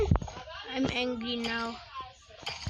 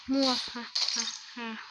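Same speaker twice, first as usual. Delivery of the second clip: sneering panto villain; 2 semitones lower, 3 dB quieter, slower than usual. Pretend. Evil laugh after kill threat.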